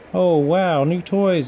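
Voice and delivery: put-on thrilled child seeing new toys; excited boy. A narrator's reading. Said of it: "Andy said".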